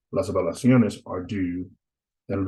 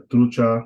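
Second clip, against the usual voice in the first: TRU in "trucha" stressed; stress on first syllable; 3 semitones higher, 6 dB louder than usual. Shown as a demonstration. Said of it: "it's gonna be on the first one".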